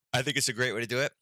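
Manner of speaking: talking through a yawn; words stretched by a yawn. Real, not acted. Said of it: "I apologize for yawning".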